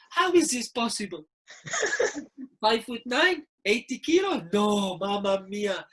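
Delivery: high-pitched imitation of an appalled manager; mock outraged disbelief. Manager appalled at player's weight on the scales, mock outrage. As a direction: act out the manager's incredulity, pitched well up.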